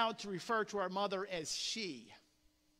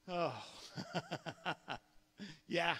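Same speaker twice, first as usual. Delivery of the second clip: ordinary talk, nothing marked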